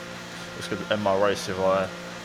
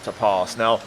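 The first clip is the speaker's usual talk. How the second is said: motorsport commentator. A narrator's reading. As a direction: lively race commentary voiceover. Race narration over gameplay.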